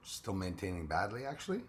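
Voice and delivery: raspy, strained, nearly lost voice; hoarse voice. Real, not acted. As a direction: croak it out through a sore throat. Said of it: "voice isn't back yet".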